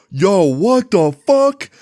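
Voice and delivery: high, stretched-out mock disbelief; shocked outcry. Whole class seeing the stain, shocked high outcry. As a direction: draw it out high like a stunned crowd.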